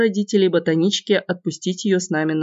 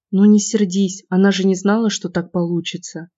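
pleading. Acted. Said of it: "попросила та".

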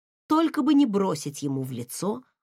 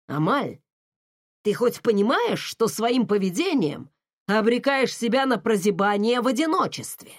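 scolding father. Acted. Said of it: "Отец распалялся всё больше".

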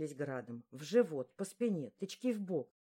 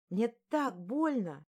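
slow, raised cry of pain; yelling in pain; 5 semitones higher, 4 dB louder, slower than usual. Acted. Beaten girl crying out in pain, slow and raised. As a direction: let the pain pull the words out. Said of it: "Я заорала во всё горло".

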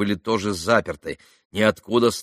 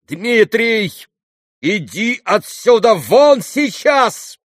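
high, loud, slow order; commanding cry; 13 semitones higher, 8 dB louder, much slower than usual. A narrator's reading. Alyosha ordering his brother out, loud and commanding. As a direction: order him out with authority. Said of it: "властно вскрикнул Алёша".

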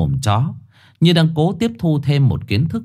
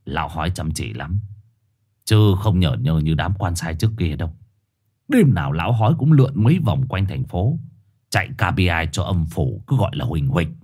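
gruff dog; 7 semitones lower than usual. Acted. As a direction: gossip like a know-it-all. Dog continues story.

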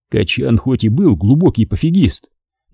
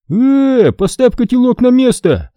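a raised, indignant voice defending his tea; Hasan angry; 12 semitones higher than usual. A narrator's reading. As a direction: snap at him to put it back. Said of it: "раздался голос Хасана".

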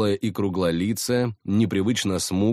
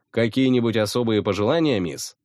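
creepy butler; 3 semitones higher than usual. Retold or imitated. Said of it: "изобразил я дворецкого".

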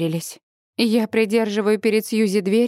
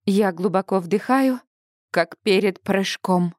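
usual speaking voice

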